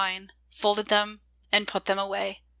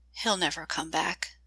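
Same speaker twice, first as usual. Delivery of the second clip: soft, low, barely voiced; whispered; 3 semitones lower, 8 dB quieter than usual. A narrator's reading. Joy alone at the window after he leaves, whispering. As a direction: say it under your breath, to herself. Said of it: "she whispered".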